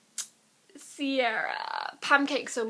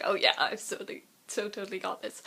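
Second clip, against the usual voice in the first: ditzy Riss voice; 3 semitones lower than usual. Retold or imitated. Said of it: "the Riss voice because she was being really ditzy".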